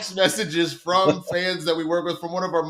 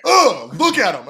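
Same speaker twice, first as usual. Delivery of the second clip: disgusted scoff; 4 semitones higher, 8 dB louder than usual. Retold or imitated. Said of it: "where she was like".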